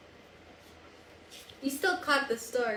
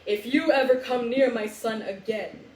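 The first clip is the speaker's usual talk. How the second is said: lower, a touch louder kingly threat; a hint of a stern lion king; mild roar; 3 semitones lower, 4 dB louder than usual. Mufasa warning the hyenas, mildly roaring. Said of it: "the Lion King roared".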